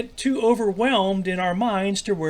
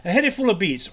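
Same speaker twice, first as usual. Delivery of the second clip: put-on slight Scottish accent; 3 semitones higher than usual. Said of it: "not a very good Scottish accent".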